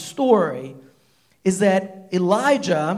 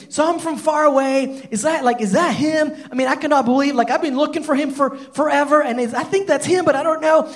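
higher voice, unsure and eager; Ahab's excited doubt; 5 semitones higher than usual. Retold or imitated. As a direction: wonder aloud if it's really him. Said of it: "I'm thinking".

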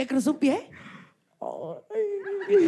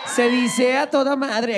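loud slow cheer cue; 2 semitones higher, 3 dB louder, slower than usual. Acted. Host cues audience cheer.

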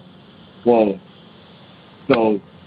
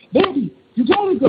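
very high-pitched wifely plea; mock pleading falsetto; imitating pleading wife. Frightened wife pleads with husband.

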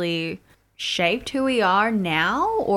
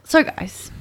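voice cracking up an octave; 6 semitones higher than usual. Real, not acted. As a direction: voice breaks high on the words. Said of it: "Oh my God, my voice just cracked".

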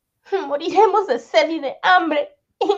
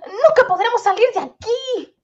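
panicked cry; 4 semitones higher than usual. Acted. Trapped in a death dungeon.

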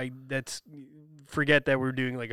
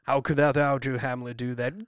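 mock olde english. Shown as a demonstration. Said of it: "a Shakespearean voice".

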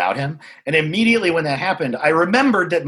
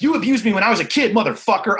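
retold outburst; 6 semitones higher, faster than usual. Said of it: "I didn't say it exactly like that".

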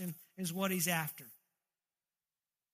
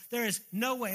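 raised, emphatic accusing voice; acted yelling; 3 semitones higher, 3 dB louder than usual. The devil yelling condemnation at a believer, mildly raised voice. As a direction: press it home like a mild yell. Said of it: "And he's yelling".

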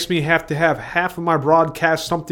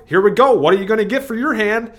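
card dealer voice; 7 semitones higher, 4 dB louder than usual. Retold or imitated. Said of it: "somebody's shuffling the deck".

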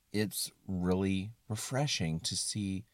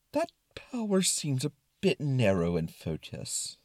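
doubtful, slightly raised voice; concerned Brain; 4 semitones higher than usual. Acted. Brain doubting her narrow power, concerned. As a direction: query it with measured worry. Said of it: "in a very concerned tone".

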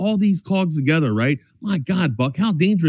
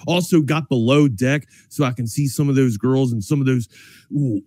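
casual radio sponsor plug; conversational sales read; live ad read; 2 semitones lower than usual. Acted. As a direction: pitch the sponsor like a chatty sports host.

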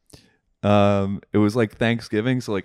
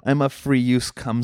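man doing a woman's voice; 4 semitones higher than usual. Acted. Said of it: "I heard you say it in a girl voice".

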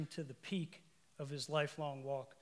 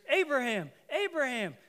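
high, loud call of the name; 8 semitones higher, 7 dB louder than usual. Acted. Angel calling down to Abraham, loud and high. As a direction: call him urgently from above. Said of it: "And he hears".

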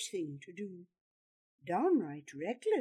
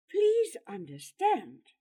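high, urgent plea; raised, imploring voice; begging; 7 semitones higher, 5 dB louder than usual. A narrator's reading. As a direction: beg him to understand. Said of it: "Gerard begged".

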